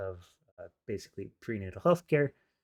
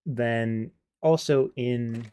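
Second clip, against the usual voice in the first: talking while crunching chips; words round a mouthful of chips; slower than usual. Real, not acted. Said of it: "I'm crunching 'cause I got a".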